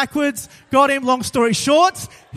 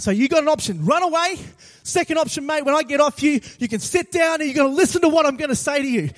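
stern, slightly raised ultimatum; retold angry yell; 3 semitones higher than usual. Preacher giving the mugger his second option, mildly angry yell. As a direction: order him firmly, a touch worked up. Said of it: "I just yell back at him".

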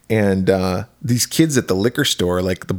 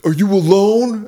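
suspicious voice; 8 semitones higher than usual. Retold or imitated. Voicing the brother at door.

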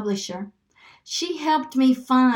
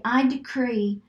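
slow, deliberate declaration; measured, repeat-after-me delivery; slow decree. Shown as a demonstration. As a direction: declare it phrase by phrase. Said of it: "say it slow enough".

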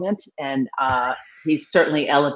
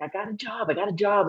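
retold excitement; 6 semitones higher, 5 dB quieter than usual. Retells giddy call to brother.

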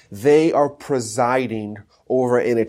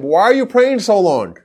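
high-pitched, raised-voice mock scolding; acted scolding scream; 10 semitones higher, 4 dB louder than usual. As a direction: imitate a rabbi yelling at someone praying too long. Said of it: "he starts screaming at him".

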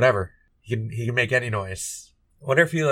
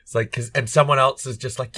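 usual speaking voice

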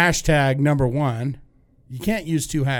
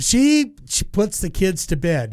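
quoting singer; 2 semitones higher than usual. Retold or imitated. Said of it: "And he said".

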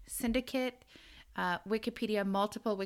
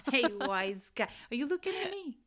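playful New York wise-guy challenge; mock New York tough guy; 6 semitones higher, much faster than usual. Host riffing with cohost on the East, mock New York accent. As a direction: pick a pretend fight in a New York accent.

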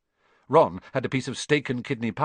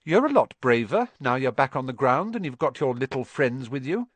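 cool retort; 3 semitones higher, 4 dB louder than usual. Acted. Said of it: "said Harry coolly".

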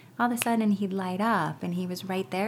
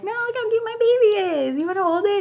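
very high mock little girl, louder; 7 dB louder, faster than usual. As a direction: coo it like a girl showing off her baby doll. Little sister cooing over pine cone.

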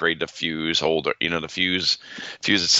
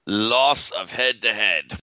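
put-on Australian accent; 3 semitones higher, slower than usual. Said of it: "Why are you talking like that?".

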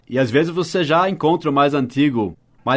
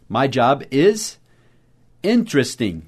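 my job is drawn out slowly; slow model phrase; slower than usual. Shown as a demonstration. Teacher slowly repeating the phrase for students. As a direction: say it slowly so learners can follow. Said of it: "o meu emprego is".

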